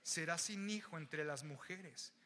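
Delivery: slow, weighty "Así tu madre"; solemn prophet line. Retold or imitated. Samuel pronounces sentence on Agag, slow and grave. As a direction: drag out "Así tu madre" slowly. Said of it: "Y Samuel le dice".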